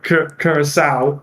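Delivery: Curacao said slowly, stumbling on the first syllable; slow, deliberate Curacao, restarting the start; careful pronunciation. Shown as a demonstration. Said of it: "I'm not gonna say it right".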